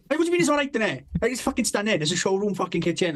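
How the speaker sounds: high-pitched, indignant disbelief; exasperated protest. Retold or imitated. Son challenging dad over the kitchen he built, exasperated protest. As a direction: plead indignantly, acting out the hurt son.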